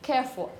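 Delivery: "Careful" with a weak schwa ending; "Careful", last syllable swallowed; exaggerated reduction. Shown as a demonstration. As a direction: say "Careful" stressed on care, "ful" nearly gone. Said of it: "I'm exaggerating a bit".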